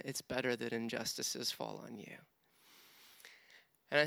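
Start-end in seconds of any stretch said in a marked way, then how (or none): 0.1-2.1 gentle whisper. Retold or imitated. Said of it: "I hear the Lord whisper".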